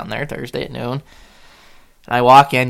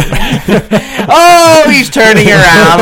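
loud, high "oh" of dawning trouble; raised-voice mock panic; retold alarm; 10 semitones higher, 10 dB louder, much slower than usual. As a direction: cry out in comic alarm. Retold sighting of trooper turning.

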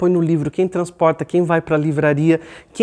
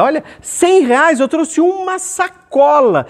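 high, louder outraged grumble; indignant shopper's griping, pitched way up; complaining about prices; 10 semitones higher, 4 dB louder than usual. Acted. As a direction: exclaim in hammed-up disbelief at the prices. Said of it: "reclamar do preço de tudo".

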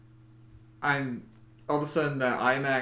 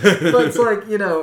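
laughing through words; 7 semitones higher, 13 dB louder than usual. Real, not acted. Laughing after own joke.

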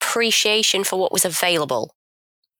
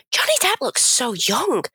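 higher, lightly imitated fan; gushing young fan; 4 semitones higher than usual. Imitating Lily watching Pirates, gushing fan. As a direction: marvel like a smitten young fan.

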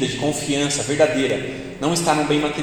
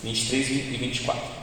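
water still caught in the throat; quiet, throat catching after choking on water; choking on a drink; 3 semitones lower, 7 dB quieter than usual. Real, not acted. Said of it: "eu me engasguei com água".

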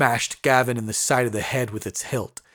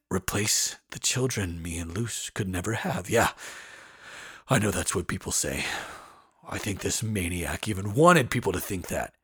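gruff man. Acted. Brom continues.

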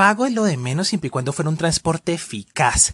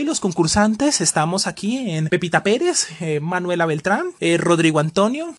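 game show host. Pretend. Presentadora de reality imaginado.

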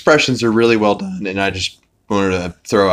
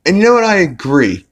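excited; 10 semitones higher, 4 dB louder, faster than usual. Real, not acted. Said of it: "own excited joke".

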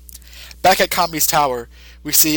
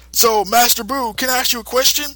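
careful question; 8 semitones higher than usual. Retold or imitated. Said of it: "Mister Satan says".

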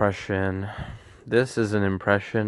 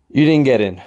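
louder blurted bad news; blurted rejection; 3 semitones higher, 5 dB louder, faster than usual. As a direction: drop the news abruptly. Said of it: "my impression of a college denial letter".

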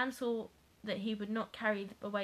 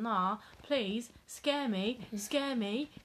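insistent begging, rising to a high plea; mock pleading; 4 semitones higher, 4 dB louder, much slower than usual. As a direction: beg over and over, hammed up. Youth begs host to scare him.

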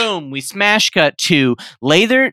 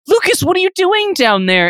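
high, raised call into a drain; 14 semitones higher than usual. Acted. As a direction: call down to him, alarmed. Sister calling into sewer.

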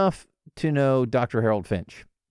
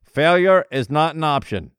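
quoted movie line; 2 semitones higher, 6 dB louder than usual. Retold or imitated. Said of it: "they said".

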